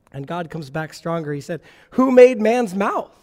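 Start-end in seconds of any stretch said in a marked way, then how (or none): 1.9-3.1 God's voice, loud and slow, rebuking; a loud, slow divine rebuke; booming voice of God. Acted. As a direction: thunder the question down at Moses.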